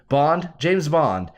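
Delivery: slow, drawn-out Bond, James Bond; a lightly voiced suave spy intro; mock Bond line. Quoting Burt Reynolds, doing the famous Bond line slowly. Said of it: "to quote Burt Reynolds".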